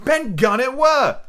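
high, slow relieved shout; excited cry. A narrator's reading. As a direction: drag it out in glee. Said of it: "cried Morgan".

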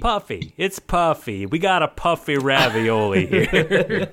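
put-on hammy Italian accent, slowed; jokey Italian chef accent. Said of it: "You're doing an Italian accent".

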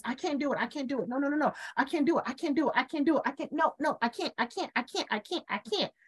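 a mock panicked chant of I can't; fearful repeating. Voicing fearful self in trance.

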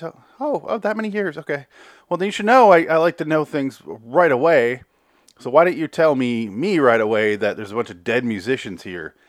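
high, loud, scolding; angry boss yelling. Retold or imitated. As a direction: scold an employee for keeping secrets. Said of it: "Margaret is yelling at Courtney".

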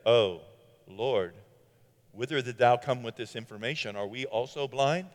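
low, soft, solemn King James speech; pious old English. Acted. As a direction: play a stiff, reverent Pharisee. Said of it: "You can say that they talked like that".

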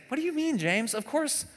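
squeaky "of course I do" defensiveness; mock indignation. Churchgoer protesting to James, high and indignant. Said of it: "To which we would say".

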